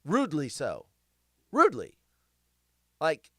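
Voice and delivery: ordinary talk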